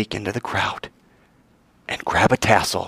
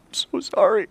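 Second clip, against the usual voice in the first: mild tearful plea; 9 semitones higher than usual. Acted. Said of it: "as she's just bawling".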